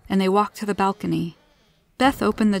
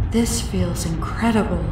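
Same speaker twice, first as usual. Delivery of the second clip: cooing. A narrator's reading. Alien feels the rushing air, cooing. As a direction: coo it with gentle wonder. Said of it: "The alien cooed".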